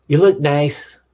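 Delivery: quick, don't-bother-me compliment; bad-wolf dismissive. Shown as a demonstration. Partner who resents being asked, brusquely dismissive. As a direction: toss it off as if annoyed at being asked. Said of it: "That's like from the bad wolf, "Don't bother me".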